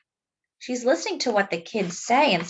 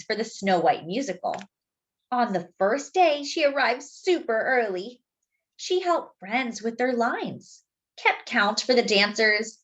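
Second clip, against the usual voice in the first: put-on gentle read-aloud for children; story narration; 3 semitones higher, slower than usual. A narrator's reading. Narrator reading a story to young listeners, gently. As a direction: tell it like a bedtime picture book. Reads the picture book aloud.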